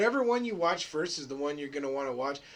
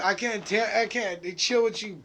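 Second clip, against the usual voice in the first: mock Ken; 3 semitones higher, 5 dB louder than usual. Voicing Ken leaving.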